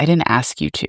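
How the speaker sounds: composed, unbothered, cool and calm tone. Retelling an overheard argument, the man's answer: imitating a cool, calm reply. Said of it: "so calmly".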